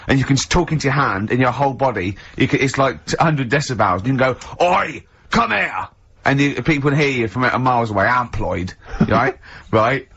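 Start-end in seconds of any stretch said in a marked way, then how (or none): 4.6-5.9 slow, higher hammed-up shout; mock call out. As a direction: call across the street in fun. Amploid loud voice call.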